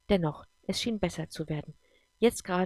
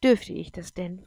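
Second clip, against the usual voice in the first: slow, louder hopeful asking; pleading; 5 dB louder than usual. Acted. Girl asks her mother hopefully if she may ride. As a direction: ask hopefully, drawing it out. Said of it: "schaute ihre Mutter dabei bittend an".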